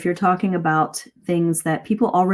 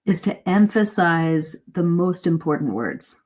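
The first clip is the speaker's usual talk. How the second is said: "emphasize" drawn out slower and pitched up; stress on EMPHASIZE. Shown as a demonstration. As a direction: lean on "emphasize", stretching it above the other words. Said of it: "I said that word more slowly and higher in pitch".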